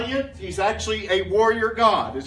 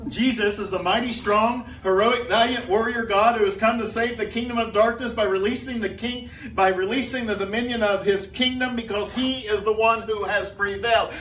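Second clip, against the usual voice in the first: all in one breath. Shown as a demonstration. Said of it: "let me read it again".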